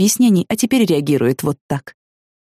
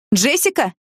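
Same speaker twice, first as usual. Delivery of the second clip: mother calling out; 7 semitones higher, slower than usual. Acted. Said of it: "крикнула мама мне вслед".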